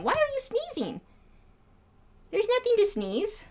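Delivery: high, fussing pet talk. Real, not acted. Asking her sneezing bird what's wrong in high baby talk. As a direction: worry over the bird in a high coo.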